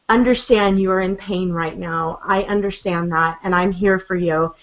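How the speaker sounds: low-key, tender reassurance, retold; understated, sincere parental comfort. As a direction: soothe a child who is hurting. Mother comforting her crying son, retold.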